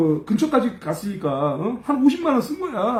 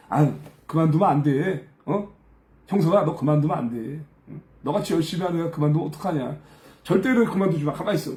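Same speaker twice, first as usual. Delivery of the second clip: lower-pitched, earnest coaxing; acted dissuading; 5 semitones lower than usual. Fellow assistants urging him not to quit, low coaxing. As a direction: imitate a colleague talking him out of it. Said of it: "막 이렇게 했는데".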